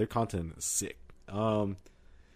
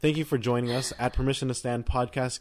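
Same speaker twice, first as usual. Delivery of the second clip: laughing. Real, not acted. Sign-off while laughing.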